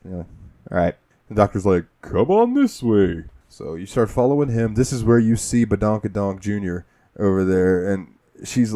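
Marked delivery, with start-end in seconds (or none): 2.0-3.2 slow doctor beckoning. Retold or imitated. Doctor leading you.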